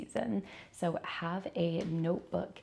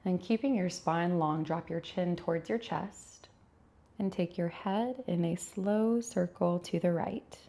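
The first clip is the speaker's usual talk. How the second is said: unhurried yoga teacher cues with long pauses; measured, calm yoga-class delivery; guided yoga instruction. Acted. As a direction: guide them gently through each stretch, pausing between cues. Leads a gentle yoga practice.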